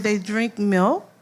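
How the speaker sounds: slow, drawn-out amused question; amused disbelief. Real, not acted. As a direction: stretch it out, tickled and amazed. Amazed at child's answer.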